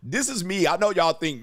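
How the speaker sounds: ordinary delivery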